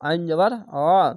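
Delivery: আইন জবর অ read thick, with the throat pinched; squeezed throat ain. Shown as a demonstration. Teacher showing students how to squeeze the throat for ain. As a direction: press the throat for the আইন sound. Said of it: "আইনটিকে একটু মোটা করে গলা চিপে পড়বেন".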